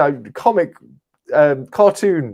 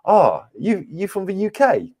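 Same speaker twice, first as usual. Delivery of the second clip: higher-pitched, delighted Canadian guy; friendly Canadian stranger; 9 semitones higher than usual. Retold or imitated. Canadian guy hearing the traveller's accent, high and eager. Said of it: "he was a Canadian guy".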